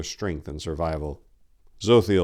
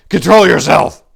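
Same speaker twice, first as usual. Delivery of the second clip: loud, high, insistent; pressing, angry; 12 semitones higher, 17 dB louder than usual. A narrator's reading. Tor pressing the shaking boy, angry. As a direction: press him hard to get a grip. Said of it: "he pressed".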